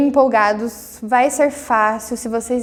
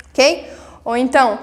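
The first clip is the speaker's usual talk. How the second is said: normal talking voice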